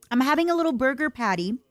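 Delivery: talking while chewing; words round a bite of food; mouth full. Real, not acted. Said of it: "eating and talking with my mouth full".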